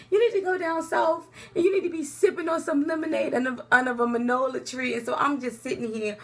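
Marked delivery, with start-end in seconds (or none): 0.1-4.9 laughing tease. Retold or imitated. Teasing attorney with jokes.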